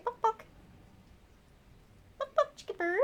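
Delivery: high little hen clucks; chicken clucking. Shown as a demonstration. Owner prompting her bird to talk, high chicken clucks. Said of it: "I taught my chicken how to balk".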